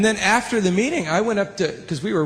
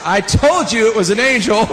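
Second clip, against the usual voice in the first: louder, laughing I-told-you-so; laughing triumph; 4 semitones higher, 5 dB louder than usual. Retold or imitated. Telling the engineer, loud and laughing. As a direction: crow it through laughter. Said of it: "I said".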